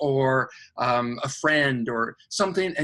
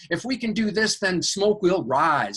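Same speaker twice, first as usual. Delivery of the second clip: excited angel; 5 semitones higher than usual. Retold or imitated. Angel voiced, higher pitch.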